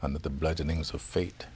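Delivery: measured recital from memory, pausing between lines; poem recitation. Shown as a demonstration. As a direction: recite the verse with restraint, line by line. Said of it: "Can you recite it?".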